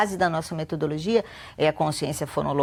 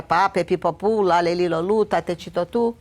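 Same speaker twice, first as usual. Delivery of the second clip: memorised syllable drill. Shown as a demonstration. Showing how a child memorises syllables, rote recitation. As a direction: rattle off syllable families like a drill. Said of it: "a criança decora sílabas".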